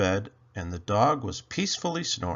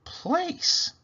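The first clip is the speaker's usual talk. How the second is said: high, slow lightly voiced elf; bewildered elf; slower than usual. A narrator's reading. Elf lost in a strange house, high slow puzzled voice. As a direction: wonder aloud like a lost little elf. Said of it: "he wondered".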